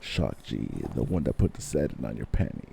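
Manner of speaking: low smooth seductive croon; lightly voiced soul-singer croon; sexy voice. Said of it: "You can't be using your sexy voice".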